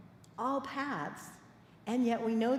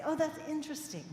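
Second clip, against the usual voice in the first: curious; 6 semitones higher than usual. Shown as a demonstration. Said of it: "We go to the curiosity".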